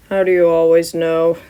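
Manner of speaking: a hint of a tired teacher.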